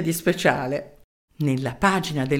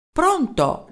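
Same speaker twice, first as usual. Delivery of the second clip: shouted into the phone; 10 semitones higher than usual. Acted. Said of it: "gridò Merelao nella cornetta".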